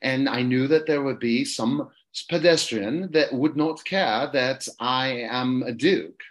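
British duke explaining himself; put-on London accent, slowing grandly at the end. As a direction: play a snobbish British aristocrat. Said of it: "I'll do the London accent".

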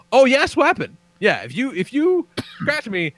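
mocking threat. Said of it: "I go".

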